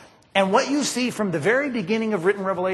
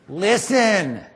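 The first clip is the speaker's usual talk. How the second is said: loud listen; 2 semitones higher, 4 dB louder than usual. Retold or imitated. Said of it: "Jesus is recorded as saying to people".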